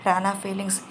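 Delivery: usual speaking voice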